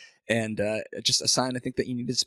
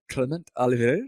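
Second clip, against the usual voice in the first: French accent. Shown as a demonstration. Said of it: "I'm pronouncing his name with a French accent".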